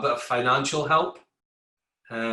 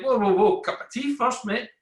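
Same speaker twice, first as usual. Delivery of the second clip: laid-back workmates; 9 semitones higher than usual. Retold or imitated. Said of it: "They're like".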